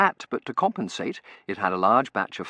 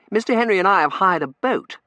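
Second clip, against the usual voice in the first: put-on earnest young gentleman; 11 semitones higher, 10 dB louder than usual. A narrator's reading.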